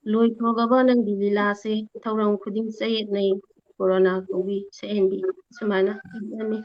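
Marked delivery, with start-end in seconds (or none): 0.1-5.2 measured recital with a raised opening; poem recitation. Real, not acted. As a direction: recite a quoted verse, easing down line by line. Recites teacher's quoted verse.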